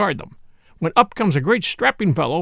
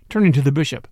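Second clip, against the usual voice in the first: usual speaking voice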